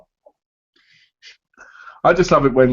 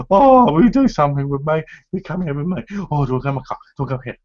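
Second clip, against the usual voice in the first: eager American admirers; 3 semitones higher than usual. Retold or imitated. Man mimicking American women running up to him, mock gushing. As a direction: imitate women fawning over him. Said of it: "They're all over you".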